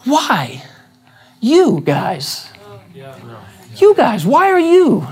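high, bewildered you guys; pleading astonishment. Shown as a demonstration. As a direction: plead with friends in disbelief. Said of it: "listen to the question".

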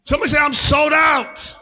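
loud fiery preaching; rally the church, full force. Acted.

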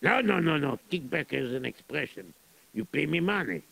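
put-on lightly accented Russian general, gruff and greedy. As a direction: play a scheming Russian general. Plays Russian general in story.

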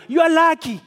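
loud, fast, high cheer; excited urging. Acted. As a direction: hurry him up with glee. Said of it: "how it says it in Message Bible".

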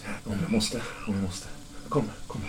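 soft, understated menace; quiet reluctant threat. Acted. Kidnapper saying he would shoot if forced, quietly. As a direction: answer softly, then urge them along.

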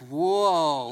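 a mock stunned whoa; amazed whoa. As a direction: let the surprise land. Reacting to her fluid identity.

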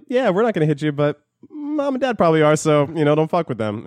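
lightly mock the lenient parents; imitating parents. Kid retelling what parents told him, high mock voice. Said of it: "my parents were kinda like".

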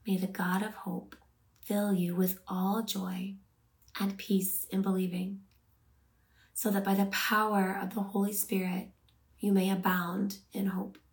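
measured Bible verse reading, phrase by phrase; contemplative, unhurried scripture. Real, not acted. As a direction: read the verse deliberately, pausing to let it land. Reads scripture again for meditation.

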